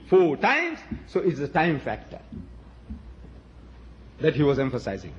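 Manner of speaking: ordinary delivery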